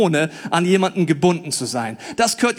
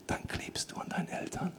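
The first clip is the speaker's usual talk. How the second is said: whisper; 4 semitones lower, 19 dB quieter than usual. Real, not acted. Whispered aside.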